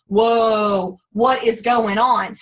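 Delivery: a loud, slow whoa of amazement; surprised whoa. Retold or imitated. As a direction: gasp out the surprise, then slow down. Realizing the acne cleared up.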